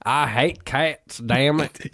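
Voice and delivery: put-on hillbilly accent. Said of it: "You're a senile Southern man".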